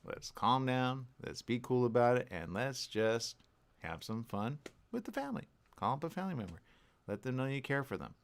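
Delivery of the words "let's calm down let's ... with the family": calm reassurance. Retold or imitated. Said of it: "we have to simply just say".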